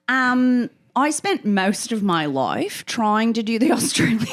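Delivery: put-on Australian accent breaking into laughter. Guest asked to teach her accent, hammed-up Australian accent. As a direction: lay on an Australian accent, then crack up. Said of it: "can you teach me that accent".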